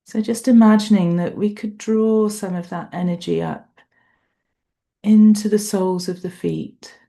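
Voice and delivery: unhurried meditation guide, long pauses between phrases; guided meditation. Real, not acted. Meditation teacher guiding a group through an appreciation body scan, unhurried guided meditation. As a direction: lead a body scan, leaving space after each thought.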